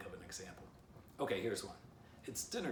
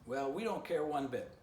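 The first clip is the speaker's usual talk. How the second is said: higher, louder bluff; taunting shout; 8 semitones higher, 4 dB louder than usual. A narrator's reading. Stick Dog bluffs to the squirrel, loud and high. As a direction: brag up at the tree. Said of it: "Stick Dog continued shouting".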